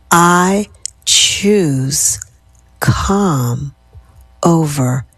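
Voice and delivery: word by word, fading to a whisper; dropping to a whisper. Shown as a demonstration. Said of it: "Your voice drops a decibel each time".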